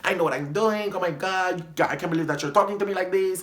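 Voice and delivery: imitated Dominican accent, indignant; her Dominican accent. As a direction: mimic her Dominican accent, acting insulted. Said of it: "this is her accent".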